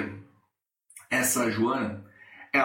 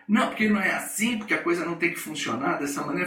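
imitating ranting colleague; faster than usual. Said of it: "ela esborrifando".

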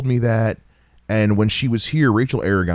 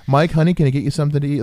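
a quick, higher sugary mom offering food; doting mother, lightly sweet and fast; 6 semitones higher, much faster than usual. Retold or imitated. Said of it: "his mom would turn around and go".

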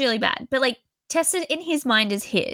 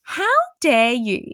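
indignant disbelief; 2 semitones higher than usual. Retold or imitated. Reader scolds Tessa for what she said, indignant. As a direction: act out your own outrage at her. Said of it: "I could not believe it".

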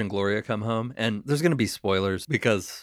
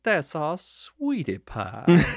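slow, syrupy creepy father; mock creepy dad; 4 semitones higher, much slower than usual. The speaker explaining the girl downstairs, slow syrupy creepy dad. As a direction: stretch the words like a sinister sweet dad. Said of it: "but he's like".

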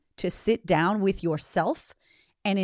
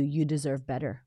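sincere reassurance; 2 semitones lower than usual. Real, not acted. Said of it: "And I want to say to you".

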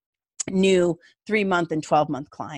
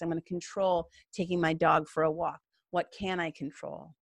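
quiet self-talk; 6 dB quieter than usual. Retold or imitated. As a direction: ask yourself calmly under your breath. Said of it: "You can ask yourself".

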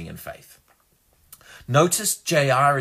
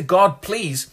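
mock begging; 6 semitones higher, 5 dB louder than usual. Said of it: "if there's just a".

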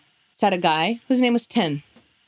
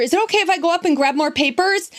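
helpful; 8 semitones higher, faster than usual. Retold or imitated. Sweetly asks the teacher.

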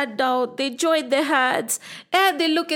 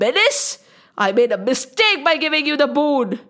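shocked Brahmaji; 3 semitones higher, faster than usual. Acted. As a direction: scold the demon in outrage.

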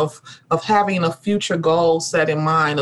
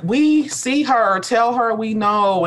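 a hint of ancestors' voice, slow and higher; 4 semitones higher, slower than usual. Ancestors sending word to their descendant, lightly voiced, slow. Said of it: "be like".

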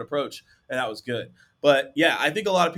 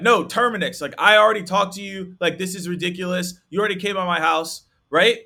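higher and louder, fed-up caller; mock exasperation from an annoyed homeowner; exasperated prospect; 5 semitones higher, 6 dB louder than usual. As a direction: talk down to a pest who came by twice.

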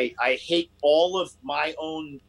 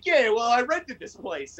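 higher, slow mock intruder claim; smug intruder; 6 semitones higher, slower than usual. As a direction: drag it out like a smug liar.

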